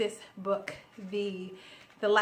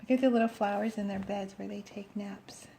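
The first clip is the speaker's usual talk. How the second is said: cooing whisper; overwhelmed by cuteness; 2 semitones lower than usual. Real, not acted. Cute picture of flowers.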